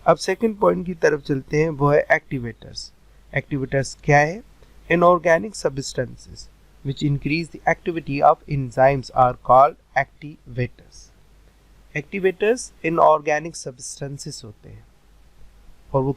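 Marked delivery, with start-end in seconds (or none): 4.9-11.0 slow, word-by-word dictation pace; slow note dictation. Shown as a demonstration. Teacher slowly dictating notes to students, word by word. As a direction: read it out slowly so students can write.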